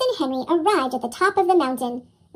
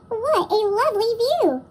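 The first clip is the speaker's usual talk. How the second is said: exclaiming; 5 semitones higher than usual. Acted. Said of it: "he exclaimed".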